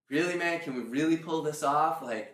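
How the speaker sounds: mock incredulous objection; imitated skepticism. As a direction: push back like a doubting business partner. Voices doubting co-founder's objection.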